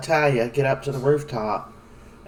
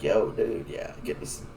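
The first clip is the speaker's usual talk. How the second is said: lazy casual dude; 2 semitones lower than usual. Pretend. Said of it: "sitting up talking to people like".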